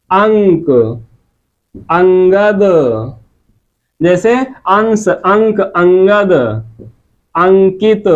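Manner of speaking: अंश, अंक, अंगद said with a full nasal consonant through the nose; anusvar demo. Shown as a demonstration. Teacher showing students the anusvar nasal in अंश, अंगद, nasal demo. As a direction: carefully sound the nasal in अंश, अंक, अंगद, अंकित, पंकज. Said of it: "अनुस्वार के उच्चारण में श्वास केवल नाक से".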